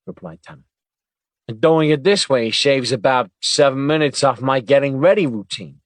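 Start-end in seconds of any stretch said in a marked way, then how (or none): 1.5-5.8 happily. Acted. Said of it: "he said, happily".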